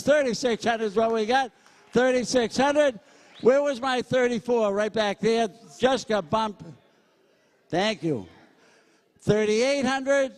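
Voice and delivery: brisk, punchy auctioneer chant, pitch up; auctioneer bid calling. Acted. Auctioneer working the crowd at a school charity, brisk bid calling. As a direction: sell it to the room, count the bids out.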